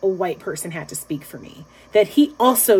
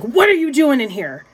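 mild mock-angry demand, a bit higher; retold rage; 4 semitones higher than usual. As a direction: imitate an indignant man confronting someone. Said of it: "like, in a rage".

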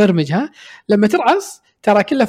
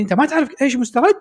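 irritated retort; 4 semitones higher, faster than usual. Retold or imitated. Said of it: "وتعصب علي".

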